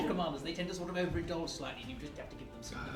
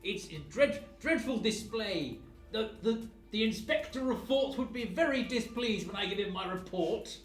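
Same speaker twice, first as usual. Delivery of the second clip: pompous official yell; slower than usual. Acted. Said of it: "I am going to yell".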